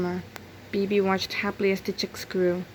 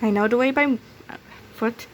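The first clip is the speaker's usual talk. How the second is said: higher, louder, confident; higher Bibi voice; 4 semitones higher, 5 dB louder, faster than usual. Acted. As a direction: speak up to reassure the flock. Bibi offers to lead.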